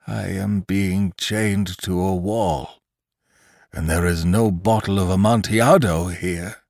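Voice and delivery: half-hearted weak cry of a dying man. Acted. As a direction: cry out with no strength left. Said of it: "cried Lantry weakly".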